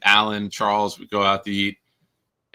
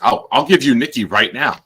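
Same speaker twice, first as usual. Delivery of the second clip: joking offer; 4 semitones higher, 5 dB louder than usual. Retold or imitated. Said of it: "I chime in".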